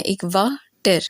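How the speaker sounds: वा and टर said as two units, a pause between; two separate sounds. Shown as a demonstration. Teacher letting students hear two sounds, वा, pause, टर. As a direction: separate वा from टर with a short gap. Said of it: "हमें दो sound सुनाई देती".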